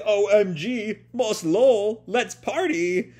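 put-on high, loud, stretched-out party girl squeal. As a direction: whoop it up like a ditzy partier. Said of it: "You are a party girl".

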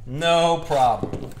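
No problem stretched out very slowly; slow, drawn-out No problem. Shown as a demonstration. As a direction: drag out No problem lazily.

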